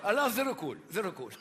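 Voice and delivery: light Italian painter voice; Italian accent. Acted. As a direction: paint the Sistine ceiling in a hammed Italian accent.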